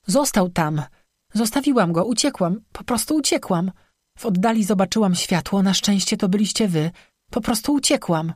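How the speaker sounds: high, pleading confession; distraught. Acted. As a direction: admit it helplessly, upset. Distraught girl admits abandoning her friend.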